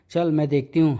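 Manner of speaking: ordinary talk, nothing marked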